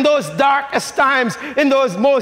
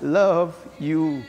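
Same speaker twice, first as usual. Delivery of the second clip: God's quiet reassurance; quiet tender God; 4 semitones lower than usual. Acted. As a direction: speak it gently as a promise. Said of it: "God says".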